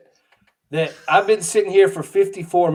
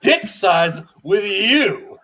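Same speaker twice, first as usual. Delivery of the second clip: slow, laughing through the words; can't hold back the laugh while teasing; drawn-out tease dissolving into laughter; much slower than usual. Real, not acted.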